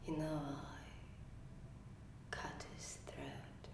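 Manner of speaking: low, very soft near-whisper with long pauses; quiet, halting and secretive; hushed confession. Acted. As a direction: confess a killing under your breath. Acted confession of killing stepfather.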